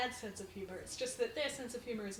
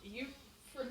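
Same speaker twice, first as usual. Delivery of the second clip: mock confused American; 6 dB louder than usual. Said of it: "They're like".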